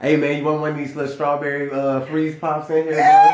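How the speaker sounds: sugary friendly offer voice; sweet offer. Retold or imitated. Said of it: "You sound so sweet".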